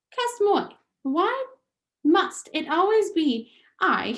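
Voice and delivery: put-on high, indignant French accent; French mother. Antoinette protests Lester's blame, high French accent. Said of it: "French Antoinette protests".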